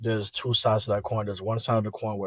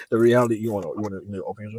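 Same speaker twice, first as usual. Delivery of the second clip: laughing; 8 dB louder, faster than usual. Real, not acted. Laughing back.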